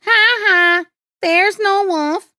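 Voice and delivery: high, loud teasing glee; laughing. A narrator's reading. Boy to the fooled villagers again, laughing loudly. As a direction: crow it with a mocking ha-ha. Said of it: "laughed Peter".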